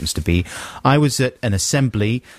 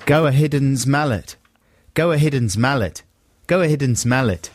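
practising a South African accent from odd spelling; attempted South African accent, repeated drill; phonetic South African accent. Shown as a demonstration. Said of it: "in a South African accent".

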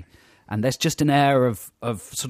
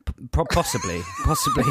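high, stuttering through laughter; helpless laughing reply; cracking up; faster than usual. Real, not acted. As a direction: try to answer while collapsing into giggles. Cracks up at co-host's remark.

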